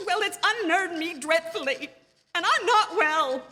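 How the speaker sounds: rising, anxious rush of words; stumbling, frightened invalid on the phone; nervous and unnerved. Acted. Invalid wife reporting a murder plot to police, nervous and breathless. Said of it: "And I feel so nervous".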